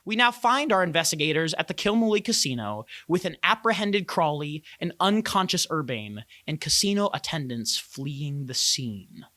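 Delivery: dramatic scene-setting narration; game master's recap. A narrator's reading. Game master recapping last session's fight for the players, dramatic narration. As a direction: narrate the story so far, each phrase carefully shaped.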